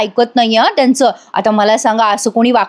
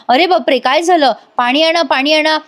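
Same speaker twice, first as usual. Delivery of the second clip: mock alarmed cries; 5 semitones higher than usual. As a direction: call urgently for help, lightly acted. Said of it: "सगळेजण ओरडायला लागतात". (घाबरून ओरडल्याचा हलका अभिनय)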